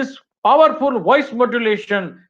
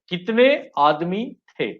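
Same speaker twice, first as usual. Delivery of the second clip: Gabbar Singh line. Shown as a demonstration. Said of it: "वो गब्बर सिंह आ गया".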